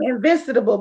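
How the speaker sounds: "invincible" with an extra syllable, "in-vin-sid-able"; mispronounced invincible. Retold or imitated. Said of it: "She mean invincible, y'all".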